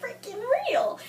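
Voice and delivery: furious fan yelling at the page; angry outburst. Retold or imitated. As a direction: shout it like you can't believe the book. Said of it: "I'm so angry because I'm like".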